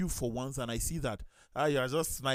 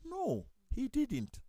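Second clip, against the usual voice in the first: slow emphatic denial; 12 semitones higher, much slower than usual. Real, not acted. Correcting a listener's belief.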